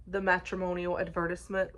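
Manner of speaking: put-on the matrimonial advertisement in a light British accent. Reviewer imitates a friend's British accent for viewers, lightly. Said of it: "like, in a British accent".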